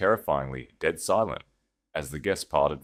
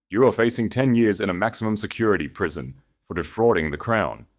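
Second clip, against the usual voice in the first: louder, calm and unshaken; unmoved, projected; 3 semitones higher, 5 dB louder than usual. Acted. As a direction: state it coolly to the whole room. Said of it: "utterly unmoved by Julian's panic".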